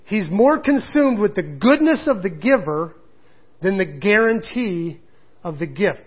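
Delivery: slow, emphatic alliterative preacher line; preacher cadence. Shown as a demonstration. Preacher repeating his key line to the congregation, slow and emphatic. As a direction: land it slowly like a pulpit punchline. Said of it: "one of those preacher things".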